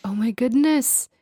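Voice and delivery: rising, drawn-out surprise; mock shock at a young face; surprised. Retells her surprise at shave.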